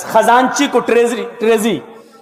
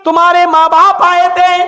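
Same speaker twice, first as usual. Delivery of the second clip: a husband gently but firmly asking about the scarf; questioning husband; 5 semitones higher, 3 dB louder than usual. Retold or imitated. Umar asking his wife where the scarf came from, pitched up and searching.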